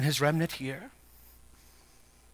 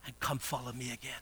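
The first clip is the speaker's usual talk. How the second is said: very soft, low voice; low, quiet appeal; hushed invitation; 4 semitones lower, 11 dB quieter, faster than usual. Acted. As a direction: drop right down to a gentle call. Preacher voices Christ's call softly first.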